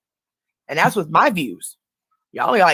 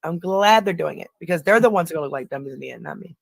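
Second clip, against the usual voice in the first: dry sarcastic remark. Real, not acted. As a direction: say it with a sarcastic edge.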